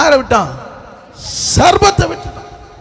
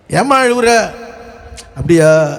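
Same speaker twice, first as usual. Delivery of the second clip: perfunctory asking. Acted. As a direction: ask in passing and move on. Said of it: "கேட்டுட்டு போறது அது வேற".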